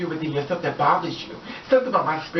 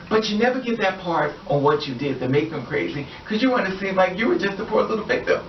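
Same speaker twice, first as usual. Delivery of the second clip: ordinary talk, nothing marked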